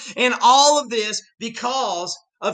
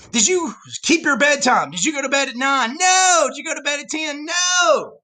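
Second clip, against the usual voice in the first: put-on defiant kid; 5 semitones higher than usual. Teacher acting kid's defiant answers.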